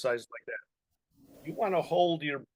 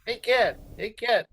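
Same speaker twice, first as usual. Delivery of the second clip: higher, louder twangy call; twang; 8 semitones higher, 6 dB louder, slower than usual. Shown as a demonstration. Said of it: "that twang".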